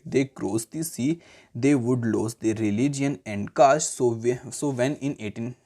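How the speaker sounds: slow, measured classroom reading; textbook read-aloud. Real, not acted. Teacher reading the history textbook to students, measured read-aloud. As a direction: read it out word by word, deliberately.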